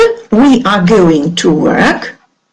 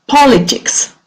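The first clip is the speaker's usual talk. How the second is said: "politics" with POL pitched up and stressed; stress on first syllable; 4 semitones higher than usual. Shown as a demonstration. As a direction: model "politics" for learners, falling after a strong first syllable. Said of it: "the stress is on the first syllable".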